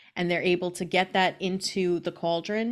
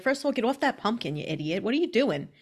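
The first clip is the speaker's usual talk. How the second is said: put-on upset old lady; 3 semitones higher than usual. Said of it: "and she's upset".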